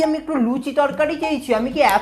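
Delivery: annoyed. Acted. Nephew fed up with hearing endless options, annoyed complaint. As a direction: grumble crossly with the pitch lifted a little. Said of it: "এত রেগে গেলে হবে".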